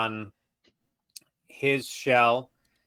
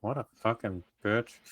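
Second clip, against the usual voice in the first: softer grumble to oneself; muttered aside; 5 dB quieter than usual. Acted. Player privately cursing the woman just thanked, muttered. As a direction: mutter it privately under your breath. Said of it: "I just mutter into my head".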